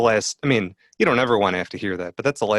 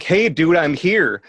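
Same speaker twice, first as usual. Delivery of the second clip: higher, louder mock yell; mock call out; 9 semitones higher, 8 dB louder, slower than usual. What he avoided saying to the neighbor, mock yell. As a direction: blurt it out bluntly. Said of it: "without being like".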